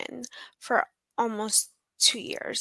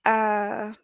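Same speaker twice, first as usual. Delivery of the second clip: tearful catch on uh; close to tears; 4 dB louder than usual. Real, not acted. Survivor apologizing to the host, on the verge of tears. Guest breaks down.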